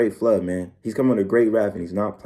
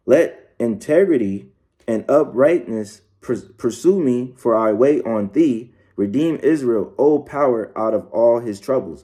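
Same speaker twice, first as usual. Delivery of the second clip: scripture reading; slower than usual. Acted. Reads psalm slowly.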